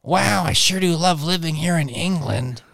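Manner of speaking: high, drawling Owen Wilson wow; lightly voiced Owen Wilson. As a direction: do a laid-back Owen Wilson. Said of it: "Owen Wilson".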